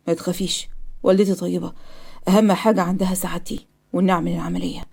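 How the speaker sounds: soft, low soothing; calm reassurance. Acted. Patient telling the nurse not to worry, calmly reassuring. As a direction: quietly put her at ease.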